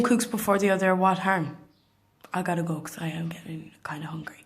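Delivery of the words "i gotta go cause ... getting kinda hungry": whispering. Real, not acted. Signing off.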